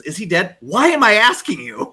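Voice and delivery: imitated question rolling straight into exasperation; no pause. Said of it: "there was no pause".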